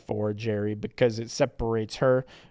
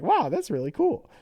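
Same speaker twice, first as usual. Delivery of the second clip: raised, lightly voiced teasing hero; cartoon hero ribbing the villain; Sonic; 9 semitones higher, 6 dB louder than usual. Sonic mocks Santa's invention, lightly voiced hero. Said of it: "Sonic is like".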